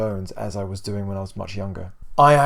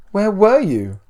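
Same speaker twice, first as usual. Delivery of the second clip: stern mother; 9 semitones higher, 8 dB louder, slower than usual. A narrator's reading. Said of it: "His mother then put on an angered tone".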